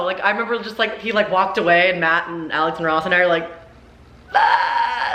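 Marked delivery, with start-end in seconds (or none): 4.3-5.1 high excited "Ah"; excited squeal. Retold or imitated. Friends thrilled after Scott Swift walks away, high excited yelp.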